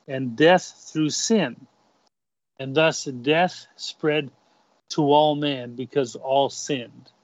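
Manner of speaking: put-on light Canadian accent, slow scripture reading. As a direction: read it in a mild Canadian accent. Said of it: "I'll try to put on my Canadian accent".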